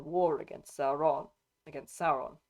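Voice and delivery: slightly odd accent on "Sauron". Real, not acted. Reader slipping on "Sauron", slightly odd accent. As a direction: let "Sauron" slip into a faintly odd accent. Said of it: "did that weird a-, accent on that".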